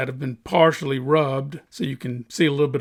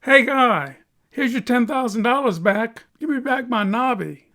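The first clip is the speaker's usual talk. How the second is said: frantic plea; 9 semitones higher, 3 dB louder than usual. Acted. Cutter begging the buyer to undo sale.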